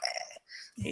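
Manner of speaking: soft voiceless creature squawk; quiet mock animal croak; imitated creature noise. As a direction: imitate a preening beast's little noise. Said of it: "they're like".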